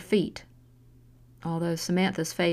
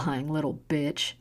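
slurred; 3 semitones lower than usual. Acted. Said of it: "Ava slurred".

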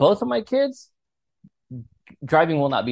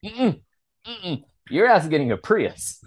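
laughing refusal; 5 semitones higher than usual. Retold or imitated. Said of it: "I was like".

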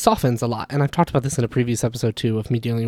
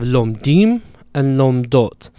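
lomdim and lomdot, each stressed on the last syllable; lom-DIM and lom-DOT, weight on the endings; end stress; slower than usual. Shown as a demonstration. Teacher showing plural suffixes, lomdim and lomdot end-stressed. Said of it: "the stress moves to the end".

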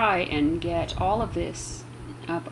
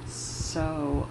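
hushed near-whisper; 8 dB quieter than usual. Real, not acted. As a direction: keep it down as if not to disturb. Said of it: "I don't really know why I'm whispering".

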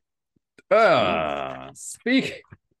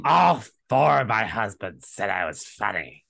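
lightly put-on much-married woman's voice; Cece; 3 dB louder than usual. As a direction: boast as a caricature of her. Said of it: "how I imagine Cece talks".

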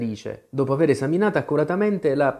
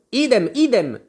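high, louder repeated squeal; shrieked echo; 11 semitones higher, 5 dB louder than usual. A narrator's reading. Tweedledee echoes his brother, mildly shrieking. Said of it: "strillò Tweedledee".

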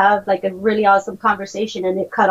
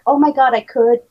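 gushing; 5 semitones higher, 3 dB louder than usual. Retold or imitated. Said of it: "gush about it and be like".

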